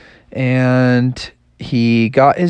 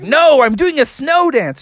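frog voice; 10 semitones higher than usual. Acted. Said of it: "And Froggy's like".

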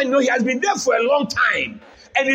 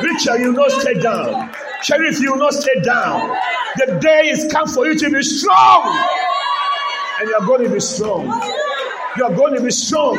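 emphatic, declaring preacher's delivery; forceful church exhortation; full-force preaching. Acted. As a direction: proclaim it to the congregation.

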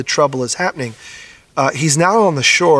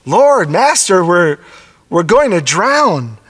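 high, louder cry of Lord, imitating frightened disciples; panicked plea; 4 semitones higher, 4 dB louder, slower than usual. Pastor voicing the frightened disciples to the Lord, panicked plea. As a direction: plead like men in a sinking boat. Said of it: "fear, fear is real".

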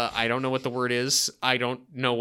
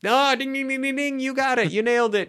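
game show ding; 10 semitones higher than usual. Pretend. Quiz host declaring correct answer.

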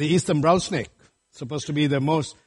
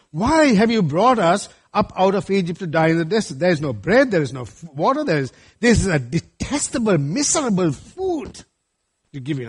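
grumbling Israelites. Acted. Preacher voices grumbling Israelites.

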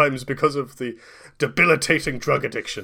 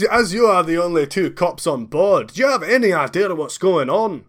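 put-on Scottish accent; 5 semitones higher, 4 dB louder than usual. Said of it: "Wallace Agentman accent".

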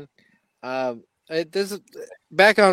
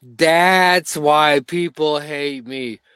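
slow mock revelation; much slower than usual. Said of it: "And he's like".

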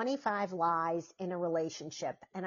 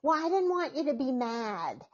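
higher, timid child's voice imitated; kid's excuse; 5 semitones higher than usual. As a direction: imitate a kid making a small excuse. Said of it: "They'll say to me".

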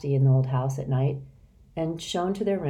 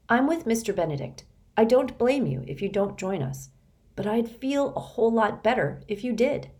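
put-on earnest boy; 6 semitones higher than usual. Rainey, boy voice.

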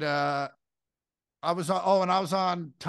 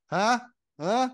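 puzzled huh; 7 semitones higher, 4 dB louder than usual. Pretend. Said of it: "you're like".

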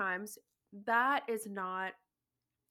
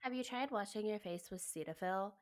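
mock advice giver; 6 dB quieter than usual. Mocking skin advice givers.

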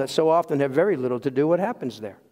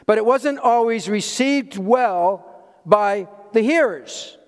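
normal talking voice

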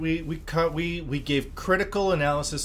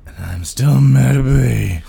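mock mad; 13 dB louder than usual. Cohost loud mock anger.

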